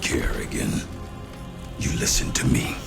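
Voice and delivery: husky, unsteady injured voice; wounded and strained. Acted. Wounded general demanding Kerrigan listen, strained. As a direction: force it out through injury.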